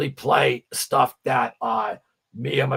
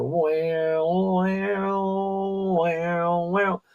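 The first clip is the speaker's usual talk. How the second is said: humming a harmonica riff; imitating harmonica; 7 semitones higher, much slower than usual. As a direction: wail it like a harmonica. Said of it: "that's a singer on the harmonica".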